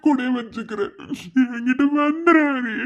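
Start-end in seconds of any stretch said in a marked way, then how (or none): 1.6-2.8 louder sob-laden plea; weeping appeal; crying plea. Acted. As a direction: cry out for them to come back. Begging sibling to come back.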